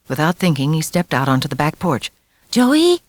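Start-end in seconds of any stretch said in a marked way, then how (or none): 2.5-3.0 high, loud call into the wind; yelling. A narrator's reading. Little boy calling for his missing brother in a storm. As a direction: shout out for him. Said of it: "he yelled".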